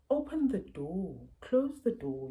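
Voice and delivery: lightly voiced step-by-step parent narration; name each action simply, easing back toward normal talk; narrating to child. Shown as a demonstration. Parent narrating everyday actions to child, lightly demonstrated. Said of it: "narrating a lot".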